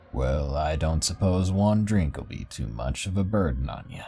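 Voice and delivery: put-on a kindly old fella; old man voice. Old man accepts a drink.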